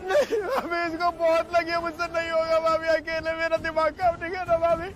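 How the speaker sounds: tearful, desperate pleading; panicked crying. Acted. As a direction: beg through tears. Injured victim, panicking.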